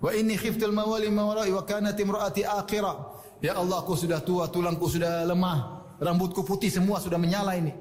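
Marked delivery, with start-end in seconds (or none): 0.0-2.9 measured chanted recitation of the verses; Quran recitation. Acted. Preacher reciting the Zakaria verses to his congregation, chanted. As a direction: recite it in a steady, melodic Quranic cadence.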